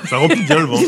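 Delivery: said through a laugh; giggling while talking. Real, not acted. Jokes about filling belly.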